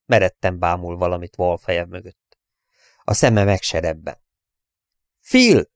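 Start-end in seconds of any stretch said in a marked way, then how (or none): 5.2-5.7 very high, loud cry; insistent high-pitched shout; shouting a name. A narrator's reading. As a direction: yell the name to jolt him awake. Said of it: "kiabált rá Wall még egyszer".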